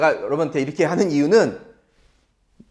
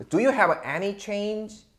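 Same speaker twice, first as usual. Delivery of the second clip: slow, careful English model line; slow model sentence; 4 semitones higher, 4 dB quieter, much slower than usual. Shown as a demonstration. Teacher slowly modeling a question for students. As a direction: spell it out slowly for learners. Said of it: "이렇게 쓰면은 완벽한 문장이 됩니다".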